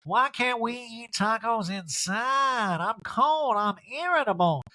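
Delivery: high, slow whiny complaint; high sulky moan; Erica impression. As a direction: sulk about the cold in a high voice. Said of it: "Erica in a talking head goes".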